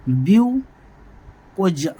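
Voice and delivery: very slow, stretched-out ब्यूकोजा; drawn out. Shown as a demonstration. Teacher slowly giving the sixth term's name. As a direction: spell it out for the class. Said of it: "इसका नाम रखा".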